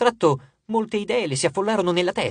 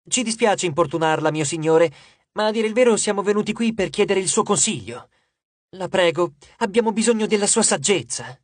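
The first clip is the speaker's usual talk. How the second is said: politely honeyed, coaxing the god; butter him up with respect; deferential flattery; 2 semitones higher than usual. Acted. Piper flattering the wine god, deferential. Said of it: "Usò il suo tono più condiscendente".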